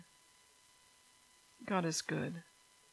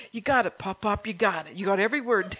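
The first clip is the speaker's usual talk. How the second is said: put-on louder, bright cheering in a child's voice; excited child cheer; 5 dB louder than usual. Little boy cheering Pop Pop for singing every word.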